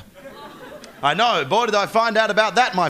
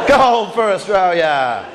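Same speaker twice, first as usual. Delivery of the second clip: slow, drawn-out mock West Country call; bad West Country accent; slower than usual. Car chase through the village, slow mock West Country accent. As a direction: stretch it in a put-on rural West Country accent. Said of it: "shit attempt at the accent".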